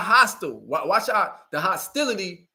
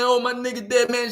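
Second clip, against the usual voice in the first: mock crying; 5 semitones higher than usual. Mocking a killer who cries over his homeboy, hammed-up whine. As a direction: mimic a grieving thug, hammed-up. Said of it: "You crying like".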